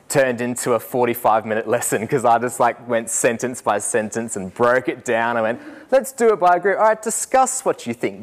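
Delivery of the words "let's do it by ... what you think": teacher voice. Retold or imitated. Addressing class as teacher.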